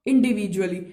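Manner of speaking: a teacher dictating a definition to students; slow dictation. Shown as a demonstration. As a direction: draw out each word of the definition. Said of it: "डिस्ट्रीब्यूटिव एडजेक्टिव क्या है".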